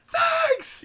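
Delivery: high, loud yelled answer; shouted reply. Retold or imitated. Van driver yelling back to the car. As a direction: bellow it back over the wind. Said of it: "we're screaming back and forth".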